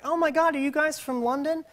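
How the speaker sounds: high-pitched, gushing question; excited mock fangirl. Lady at the gate asks the boys if they're Londoners, high mock excitement.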